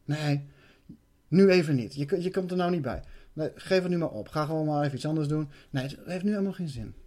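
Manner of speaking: soft, coaxing voice talking you out of it; a soft sneaky inner voice, coaxing and persuasive; sly whispering entity. Retold or imitated. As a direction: lull him into giving up, quietly. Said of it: "Heel slinks".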